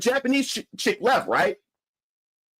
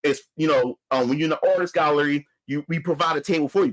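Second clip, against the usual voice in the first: low calm owner; 8 semitones lower than usual. Retold or imitated. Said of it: "He said".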